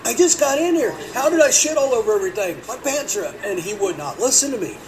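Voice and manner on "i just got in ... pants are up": high, loud pleading protest; indignant protest. Retold or imitated. Accused by the store owner: high loud protest. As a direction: plead your innocence loudly.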